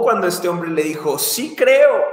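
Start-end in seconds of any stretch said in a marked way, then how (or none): 1.2-2.0 emphatic avowal. Retold or imitated. Preacher acts father answering Jesus.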